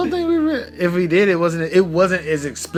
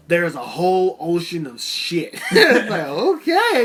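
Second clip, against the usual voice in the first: words spilling out through laughter; giggling high on the okay; laughing; 4 semitones higher, 4 dB louder than usual. Real, not acted. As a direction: laugh your way through it, voice jumping up. Laughing at the show's dialogue.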